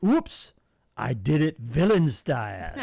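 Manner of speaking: playful hammed-up villain; mock evil villain. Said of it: "This is my villain voice".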